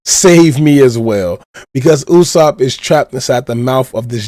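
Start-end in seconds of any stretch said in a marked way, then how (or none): 0.1-0.8 slightly raised mock cry for help; retold scream. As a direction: imitate a plea to be saved, only half-shouted. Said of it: "Usopp is screaming out to Nami".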